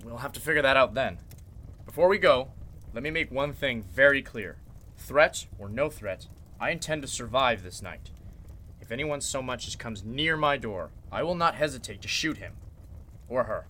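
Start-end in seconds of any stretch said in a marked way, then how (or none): 5.0-13.7 cold threat. Acted. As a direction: state it as a final, steady threat. Warning to everyone.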